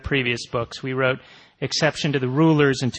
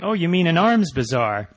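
higher, unguarded blurt, retold; 5 semitones higher than usual. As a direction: blurt it as if without thinking. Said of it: "sort of blurted out without thinking".

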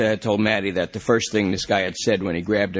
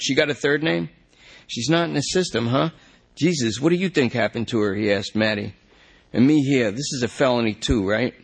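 higher, pleading, a bit rushed; desperate junkie; 4 semitones higher than usual. Acted. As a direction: beg the cop to check the system. Lester anxious questions.

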